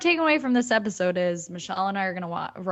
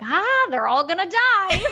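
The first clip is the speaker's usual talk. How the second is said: Quint's grim line; 11 semitones higher, 7 dB louder than usual. Retold or imitated. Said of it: "and he's like".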